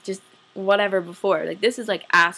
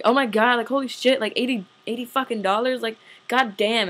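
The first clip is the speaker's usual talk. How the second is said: higher-pitched mock outrage at the price; retold swearing; 4 semitones higher than usual. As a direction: replay an exasperated swearing outburst. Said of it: "started, like, swearing".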